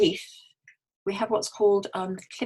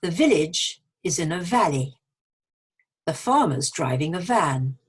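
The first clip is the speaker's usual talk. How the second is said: deliberate example sentences, key words lifted; clearly articulated practice sentences; model sentence reading; 4 dB louder than usual. Shown as a demonstration. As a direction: read aloud for learners to copy. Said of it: "I'm going to read a few sentences".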